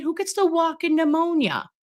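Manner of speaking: high disbelieving question; who on earth gets that; incredulous. Real, not acted. Incredulous at friend's diagnosis.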